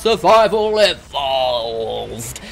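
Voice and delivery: high shouted greeting, words stretched out; hammed-up intro. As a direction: belt out a drawn-out show opener, falling at the end. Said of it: "Don't know why I do that".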